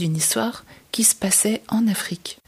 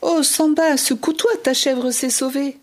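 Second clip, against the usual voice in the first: calling out; 5 semitones higher than usual. Acted. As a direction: shout the alarm to a sleeping friend. Waking Samba, goat ran off.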